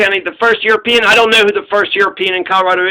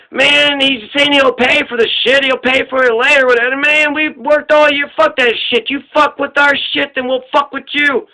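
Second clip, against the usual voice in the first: higher, indignant retold chief; mock heated argument; 5 semitones higher than usual. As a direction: voice the chief pushing back in a half-hammed rant. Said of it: "And Don Juan's like".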